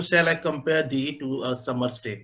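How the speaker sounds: slow, measured reading of the verse line; slow recitation of a Shakespeare line. Shown as a demonstration. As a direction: read it slowly, feeling the metre. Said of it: "ये जो".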